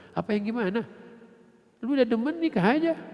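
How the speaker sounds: father pushing his daughter to just marry; rising exasperated father. Acted. Father telling his daughter to marry, rising exasperated cry.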